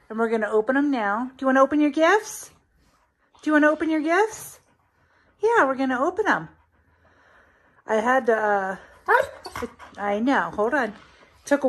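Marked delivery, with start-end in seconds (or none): 1.4-6.5 louder, faster, pitched-up sing-song; excited pet talk. Real, not acted. Owner asks Mary to open gifts, eager pet talk. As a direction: get the pet hyped for presents.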